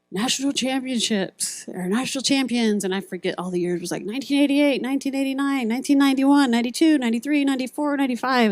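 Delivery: mild mock arena announcer reeling off years; hyped announcer. Speaker imitating the arena announcer's recording, lightly hyped. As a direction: lightly ham up the championship roll call. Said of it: "pre-recorded message of their announcer".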